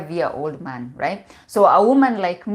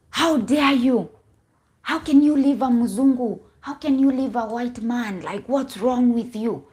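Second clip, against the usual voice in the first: mock outrage; 5 semitones higher than usual. Community scolding a woman for leaving her white husband, mock outrage. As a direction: imitate scandalized relatives telling someone off.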